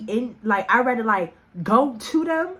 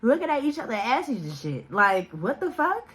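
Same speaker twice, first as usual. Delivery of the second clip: alarmed yelling; 5 semitones higher than usual. Retold or imitated. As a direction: yell it up high, freaked out. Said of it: "I'm like".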